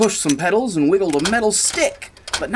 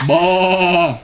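sheep bleat; 4 dB louder than usual. Acted. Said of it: "said Sheep".

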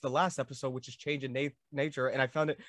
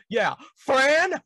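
Earl's cocky reply; 9 semitones higher, 9 dB louder than usual. Retold or imitated. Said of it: "and you go".

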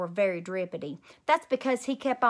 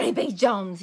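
yelling; 5 dB louder than usual. Acted. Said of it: "yelled Mother".

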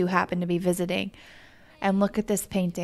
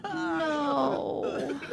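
sobbing no; a real cry of grief; tearful wail of no; 5 semitones higher, 5 dB quieter than usual. Real, not acted. Sim dies, crying out.

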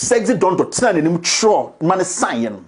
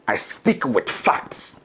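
low whisper; 8 semitones lower, 6 dB quieter, much slower than usual. Real, not acted. Insists on facts to audience.

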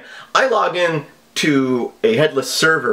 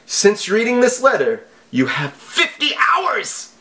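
mock scammer voice; 8 semitones higher than usual. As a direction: read the deadline like a cartoon villain. Quoting scam email.

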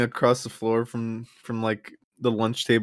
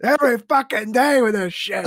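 laughing mock shout; 11 semitones higher, 5 dB louder than usual. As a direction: shout him back into the sewer while laughing. Yelling at Pennywise.

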